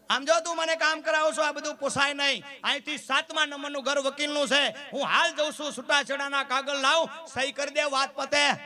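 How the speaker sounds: high, fed-up threat of divorce; irritated husband. Retold or imitated. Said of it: "ખીજાણો". (ખીજાયેલો પતિ, ઊંચા અવાજે)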